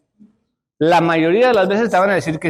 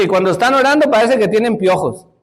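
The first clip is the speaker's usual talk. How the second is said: laughing quote; 4 semitones higher than usual. Retold or imitated. Quoting preacher, laughing.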